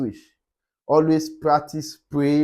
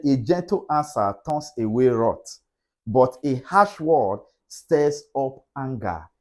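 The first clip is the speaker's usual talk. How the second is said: scripture reading. Shown as a demonstration. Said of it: "in Proverbs fifteen and verse one".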